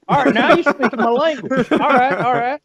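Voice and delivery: hammed-up redneck all right; placated redneck. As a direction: play the won-over gun guy. S0 plays the placated gun guy.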